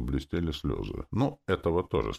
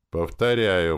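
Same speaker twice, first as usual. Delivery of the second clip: louder, firm repeat; raised voice; 4 semitones higher, 6 dB louder, slower than usual. A narrator's reading. Narrator repeating himself to the girl, louder. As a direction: raise the voice on the one word. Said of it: "повысил я голос".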